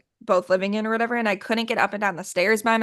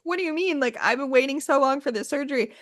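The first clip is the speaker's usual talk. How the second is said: higher-pitched upset protest, retold; retold tearful plea; 6 semitones higher than usual. Patient to doctor running behind before surgery, retold tearful plea. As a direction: plead as if starting to cry, lightly acted. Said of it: "I start crying 'cause I'm like".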